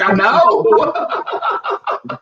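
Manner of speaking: high squeaky put-on "I know"; squeaky mock voice. Mocking herself to friends in a squeaky put-on voice. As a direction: pitch way up, laughing at yourself. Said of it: "I was like".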